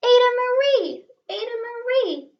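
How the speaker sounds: loud, high scolding call of her name; scolding parents. A narrator's reading. Parents scold Ada after the cat stinks, loud angry calling.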